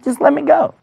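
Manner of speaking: put-on high-pitched eager boy; pleading young David. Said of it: "He said".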